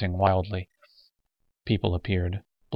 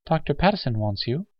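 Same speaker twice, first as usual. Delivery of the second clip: higher-pitched, patient nurse; 6 semitones higher than usual. Acted. Nurse answers an angry old patient, patiently. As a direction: tell him patiently, unruffled by the rant. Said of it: "the nurse said patiently".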